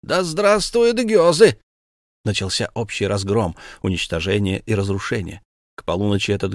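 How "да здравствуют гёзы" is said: higher, louder, slow war cry; rallying shout. A narrator's reading. Rioters cheer the Beggars while breaking in, shouting. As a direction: chant it like a mob battle cry. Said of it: "кричали при этом".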